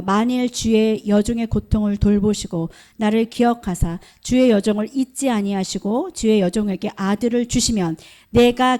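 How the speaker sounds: measured, even recital of a Bible passage; scripture reading. Real, not acted. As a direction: read the verses out steadily for all to follow. Reads scripture aloud with congregation.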